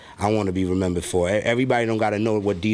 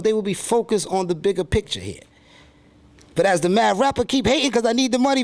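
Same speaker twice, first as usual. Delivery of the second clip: much higher, aggrieved put-on rapper voice; mad rapper persona; 9 semitones higher than usual. Rapper alter ego complaining to interviewer, high put-on voice. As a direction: gripe like a bitter, neglected rapper stranded alone. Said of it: "from the perspective of the mad rapper".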